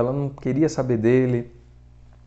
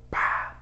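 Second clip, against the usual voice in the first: soft vocal "pá" for a shot; imitated gunshot; 7 dB quieter than usual. Prince firing into the air, imitated gunshot. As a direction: mimic a pistol going off, softly.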